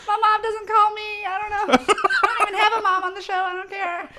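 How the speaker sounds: high, loud half-crying rant; hammed-up weepy outburst; laughing mock tears. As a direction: whine it through laughter.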